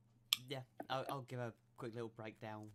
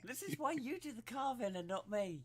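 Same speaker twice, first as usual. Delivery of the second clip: laughing; 10 semitones higher, 9 dB louder than usual. Real, not acted. Laughing after the joke.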